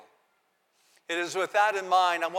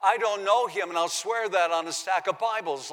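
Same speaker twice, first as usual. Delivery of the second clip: modern-day denial; 3 semitones higher, 4 dB louder than usual. Retold or imitated. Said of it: "In today's vernacular".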